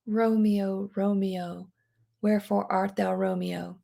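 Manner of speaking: soft, fading sad longing. Shown as a demonstration. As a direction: sigh it out with quiet longing. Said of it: "kind of a sad longing".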